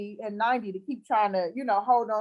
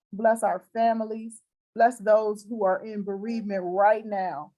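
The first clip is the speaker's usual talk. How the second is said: closing prayer; 3 semitones lower than usual. Acted. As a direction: pray over her gently, like in church.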